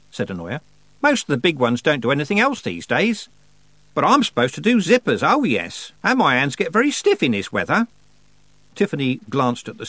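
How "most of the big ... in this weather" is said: high-pitched, chatty grumble; grumbling goddess. A narrator's reading. Goddess moaning to Tiffany about her duties, grumbling. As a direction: complain airily, voice up high. Goddess figure voiced in story.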